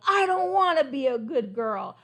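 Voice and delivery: loud, defiant and slowing at the end; yelled. Acted. Crocodile yells at the king, loud and defiant. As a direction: shout your defiance. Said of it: "He yelled".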